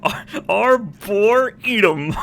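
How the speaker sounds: arboretum drawn out slowly, loud on EE; high, loud, stretched E in arboretum; stress on the E. Shown as a demonstration. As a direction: say arboretum as ar-bor-EE-tum through laughter. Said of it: "Emphasis is on the E".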